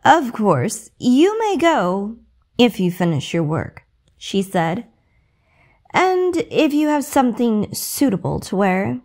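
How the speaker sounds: lightly voiced sneering stepmother. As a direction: dangle it in front of her cruelly. Stepmother taunting Cinderella.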